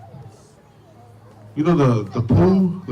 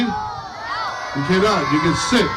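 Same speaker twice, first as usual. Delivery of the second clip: shout; much slower than usual. Real, not acted. Shouting the answer at the kids.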